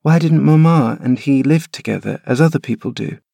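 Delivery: put-on high, plaintive child voice, pitch rising; a frail boy pleading to stay; sickly boy. Linton protesting to his nurse, high whining boy.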